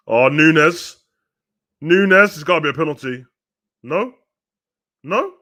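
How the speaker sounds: loud, high shout of disbelief; shocked appeal. Real, not acted. Fan watching Nunes go down, loud disbelieving appeal. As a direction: cry out for the penalty.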